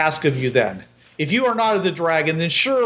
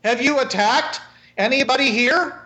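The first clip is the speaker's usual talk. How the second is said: a lightly higher woman's voice, questioning the stranger; 5 semitones higher than usual. Acted. Marie questions the stranger in a lightly higher woman's voice. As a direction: challenge the stranger directly. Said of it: "She says".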